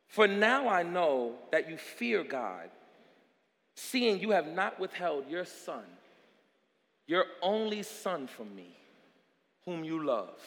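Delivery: low, soft angel's pronouncement; quiet, grave reassurance from heaven; solemn, hushed. Acted. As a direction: drop low and soft after the shout. Angel speaks softly to Abraham.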